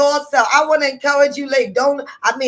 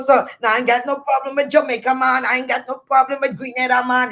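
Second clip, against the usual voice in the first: quick, light Trinidadian lilt; Trini accent; faster than usual. Real, not acted. Talk show host reassuring Jamaica and Grenada, light Trini accent. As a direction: let a Trini accent slip in. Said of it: "the Trini accent kicked in".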